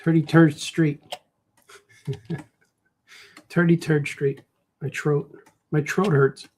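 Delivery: Chicago "turdy-turd" with hard Ts; Chicago working-guy pronunciation; Chicago accent. Shown as a demonstration. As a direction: play a Chicago guy, amused. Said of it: "That's the way Chicago guys say it".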